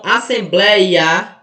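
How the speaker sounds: "assembleia" drawn out slowly with an open éi; open diphthong. Shown as a demonstration. Teacher showing open pronunciations to students, "assembleia" with a slow, open éi. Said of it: "percebam que essas pronúncias, elas são abertas".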